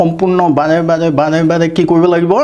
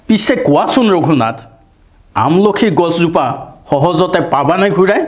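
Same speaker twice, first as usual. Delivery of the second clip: poem reading. Shown as a demonstration. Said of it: "পাঠ কৰি দিছোঁ".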